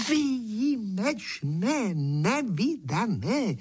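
high, very slow, stretched rejoicing; delighted exclaiming. A narrator's reading. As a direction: savour each word in delight. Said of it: "jásá předseda".

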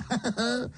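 high smug chuckle at his own joke. A narrator's reading. Uncle laughs at his own joke, smug chuckle. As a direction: laugh at your own wit.

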